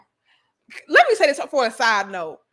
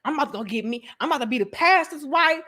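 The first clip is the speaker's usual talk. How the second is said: church lady. Retold or imitated. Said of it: "females just like".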